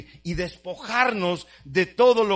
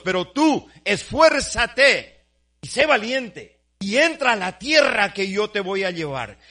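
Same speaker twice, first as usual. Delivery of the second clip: commanding God; 4 dB louder than usual. Retold or imitated. God commanding Joshua, preached.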